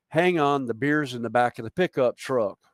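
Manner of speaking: lightly put-on Southern US accent. Shown as a demonstration. Festival regular quoting an old saying in a southern accent. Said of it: "without a southern accent".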